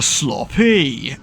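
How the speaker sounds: put-on slow, drawn-out Yorkshire accent. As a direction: stretch it out in mock Yorkshire. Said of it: "Or Yorkshire".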